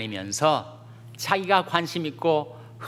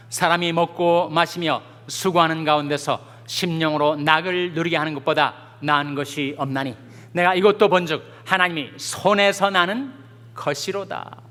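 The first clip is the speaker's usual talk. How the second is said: raised-pitch reading aloud of scripture; 4 semitones higher, 5 dB louder than usual. Acted. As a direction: lead a congregation in reading the verse together. Leads congregation reading verse. (회중과 함께 읽듯 높여서 성경 낭독)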